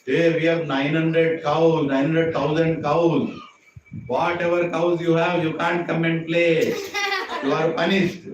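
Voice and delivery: loud, slow mock boasting of cows; mocking friends. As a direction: jeer at him like teasing friends.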